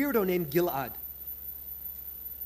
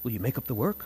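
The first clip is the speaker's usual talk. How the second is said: stern professor, lower pitch; sternly; 6 semitones lower than usual. Retold or imitated. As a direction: ask with mock severity.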